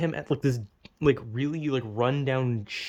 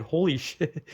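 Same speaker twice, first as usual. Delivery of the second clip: higher-pitched, breaking into a laugh; retold shock; 5 semitones higher than usual. Dreamer recalls the horrible ending, laughing disbelief. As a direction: let a stunned laugh split the exclamation. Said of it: "it was just like".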